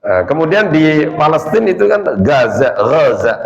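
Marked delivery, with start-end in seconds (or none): 2.2-2.7 "Gaza" with a hard g; dialect pronunciation. Shown as a demonstration. Teacher showing the local Palestinian name, hard g. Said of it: "Tadi baca ga". 2.8-3.3 "Gaza" with a throaty ghain; original pronunciation. Shown as a demonstration. Teacher showing the original Arabic name, throaty ghain. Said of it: "Aslinya Gaza".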